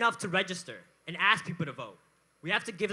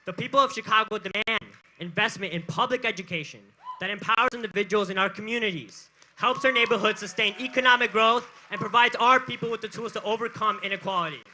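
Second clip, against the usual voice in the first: roaring rallying speech; 5 dB louder than usual. Real, not acted. Rally speaker demands to crowd.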